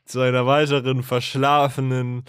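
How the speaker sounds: stuffed-up nose; sick, blocked-nose voice; snotty crying. Real, not acted. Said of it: "verschlafenen, verrotzten Folge".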